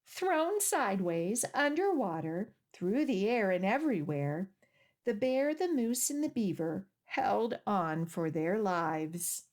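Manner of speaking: clear, lively storybook reading; gentle picture-book narration with little pauses; reading to children. Acted. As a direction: read the story aloud to a group of small kids. Reads picture book aloud.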